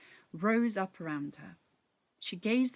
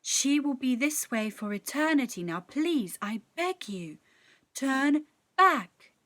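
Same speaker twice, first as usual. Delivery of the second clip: pleading sprite; 5 semitones higher, 6 dB louder than usual. A narrator's reading. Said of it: "the sprite pleaded with Tess".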